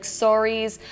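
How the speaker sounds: Canadian "sorries" with a rounded o; Canadian accent. Real, not acted. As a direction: let a Canadian o slip into "sorries". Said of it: "said that in such a Canadian way".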